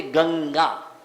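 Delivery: गंगा slowly, with a held ng before gaa; class nasal. Shown as a demonstration. Teacher giving students an example word, class nasal. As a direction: dwell on the ng of गंगा. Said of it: "वर्ग का पंचम अक्षर का प्रयोग होता है".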